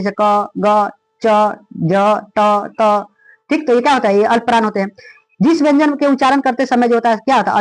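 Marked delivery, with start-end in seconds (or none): 0.2-3.1 क, ग, च, ज, ट, त each said with little breath; unaspirated consonants. Shown as a demonstration. Teacher showing alpapran letters, क, ग, च, ज, ट, त said unaspirated. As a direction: say क, ग, च, ज, ट, त singly, without a puff of air. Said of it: "कम सांस लगे".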